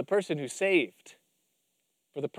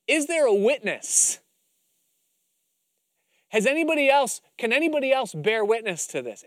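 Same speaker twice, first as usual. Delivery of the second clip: booming father; 6 semitones higher, 4 dB louder than usual. Acted. Preacher voicing God's courtroom call.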